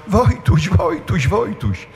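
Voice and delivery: half-voiced cry of parents searching; retold anxious calling. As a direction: imitate parents calling for a buried child. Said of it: "i krzyczą".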